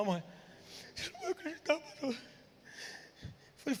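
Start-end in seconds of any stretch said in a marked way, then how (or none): 0.9-2.2 mock words spoken through tears, crying woman's voice. Retelling a sick woman's phone call to her pastor: imitating a woman crying. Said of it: "Mulher chorando".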